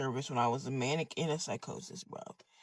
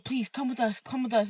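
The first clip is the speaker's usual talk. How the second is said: gentle pleading; 5 semitones higher than usual. Retold or imitated. Church people coaxing the disruptor away, gentle pleading. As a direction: lightly imitate someone coaxing.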